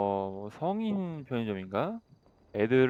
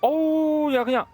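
loud, high-pitched protest to police; play-acted indignant hollering; agitated complaint; 9 semitones higher, 5 dB louder than usual. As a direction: call the officers over, worked up. Complaining loudly to game police.

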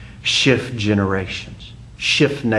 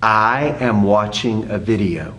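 measured model phrase; 2 semitones lower than usual. Shown as a demonstration. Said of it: "repeat after me".

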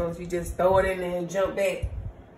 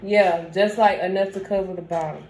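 loud, emphatic instruction; projecting to be heard; yelling; 4 dB louder than usual. Real, not acted. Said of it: "Why are you yelling?".

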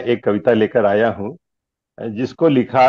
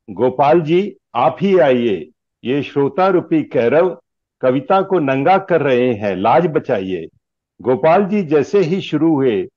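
measured lines with lilting stage delivery; declaimed Hindi humorous verse; comic poem recitation; 3 semitones higher than usual. Acted. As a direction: recite it like verse at a poets' gathering.

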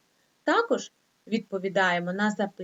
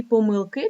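помилки stressed on the final И; stress on last syllable; 4 dB louder than usual. Shown as a demonstration. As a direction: lean on КИ in помилки. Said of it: "наголос іде тільки на останню голосну".

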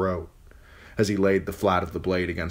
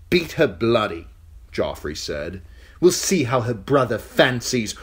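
put-on high, sneering young king; cruel boy king; 5 semitones higher, 5 dB louder than usual. King taunting the captive girl, high and sneering. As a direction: gloat down at her, spoiled and cruel.

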